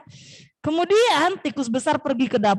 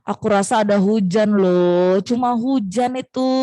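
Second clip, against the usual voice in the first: slow, slightly lowered mouse voice; big mouse's reply; 3 semitones lower than usual. Acted. Big mouse answers little mouse about the rain, slow reply. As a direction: drag the words unhurriedly. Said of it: "tikus besar berkata seperti ini".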